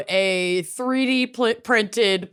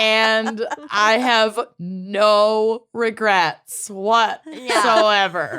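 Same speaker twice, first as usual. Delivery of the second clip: sarcastic; slower than usual. Acted. Sarcastic about home ownership.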